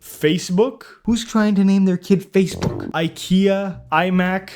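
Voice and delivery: baffled, high-pitched outrage; incredulous. Real, not acted. Reacting to absurd banned name.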